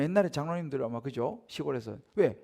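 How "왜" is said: ordinary delivery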